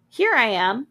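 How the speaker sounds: hammed-up falsetto of a possessed mom; unnatural falsetto. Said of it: "Her voice was an unnatural falsetto".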